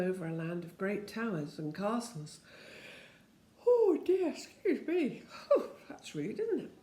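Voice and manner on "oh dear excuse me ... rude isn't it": startled apology. Real, not acted. Reader burps mid-story, apologises.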